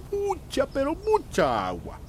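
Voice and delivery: MUCHA pitched high, then slowed pero mucha agua; emphatic. Acted. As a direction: lean hard on MUCHA to insist. Insiste en el agua abajo. (recalcando MUCHA con voz alta y pausada)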